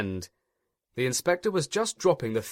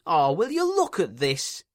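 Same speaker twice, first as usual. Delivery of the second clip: moaning; 7 semitones higher, 3 dB louder than usual. A narrator's reading. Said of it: "he moaned".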